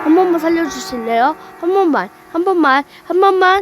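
desperate begging. Acted. 더 높고 빠르게 애원. (높고 빠르게 애원하듯)

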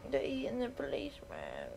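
hushed unvoiced whisper; whispering at the screen. Real, not acted. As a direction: breathe it out in horror. Zombie eats policeman, player watches.

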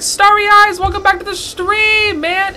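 excited greeting. Real, not acted. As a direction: greet a returning viewer. Greeting viewer on stream.

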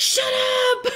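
high, loud strained shushing; mock urgent hushing shout; failed whisper. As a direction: try to whisper but end up yelling. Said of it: "trying to whisper to her".

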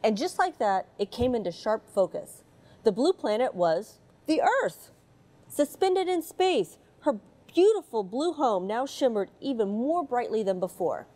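put-on gentle read-aloud storytelling for children; mild storybook narration voice. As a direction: read it like a bedtime picture book. Reads picture book aloud.

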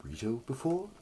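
smooth flirty bard voice; lightly voiced seductive bard; Cass sexy bard voice. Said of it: "can you give him a sexy bard voice?".

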